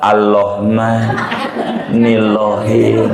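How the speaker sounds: "nilohin" slow, with l sounded where r belongs; mispronounced letter. Shown as a demonstration. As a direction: demo the lisp, swap the r in "nilohin" for l. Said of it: "Eh, ro jadi lam". (contoh salah ucap, "nilohin" pelan, huruf ro jadi lam)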